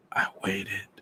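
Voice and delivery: faint, voiceless whisper; dying man's barely audible whisper; silent mouthing. A narrator's reading. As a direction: breathe the words with no voice. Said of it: "his silent lips said".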